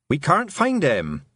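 high, drawn-out worry; panicked. Acted. Mother telling Tiffany the child is missing, panicked. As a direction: let panic lift the voice, slowly stressed. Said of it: "feel the panic pouring off her mother".

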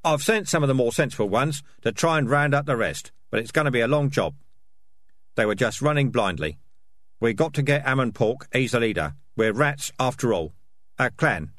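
lightly voiced rat leader, brisk and firm; emphatic, matter-of-fact character voice; tough, practical Dark Tan. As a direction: report like a field commander.

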